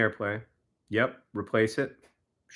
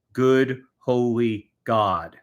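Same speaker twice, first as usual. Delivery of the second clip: drawn-out exasperation; much slower than usual. Real, not acted. Exasperated at the app.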